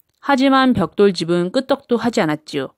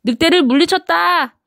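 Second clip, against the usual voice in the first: much higher triumphant cheer; 8 semitones higher than usual. A narrator's reading. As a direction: shout it out in victory. Pigs celebrate victory.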